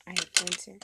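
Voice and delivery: sudden loud panicked cry; panicked outburst. Retold or imitated. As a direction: blurt it out in a panic. Panicked quote after pimple.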